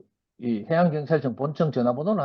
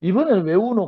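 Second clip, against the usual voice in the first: father asking his crying son; 6 semitones higher, 3 dB louder than usual. Retold or imitated. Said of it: "또 막 울더라고".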